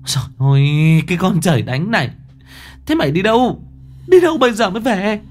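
shrieking, very high scold; shouting scold. Acted. Mother smacks her daughter and yells at her, very high and fast. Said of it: "rồi quát".

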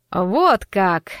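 drawling, loud «Вот как!»; drawn-out. Acted. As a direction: stretch it out knowingly. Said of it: "протянул Заяц".

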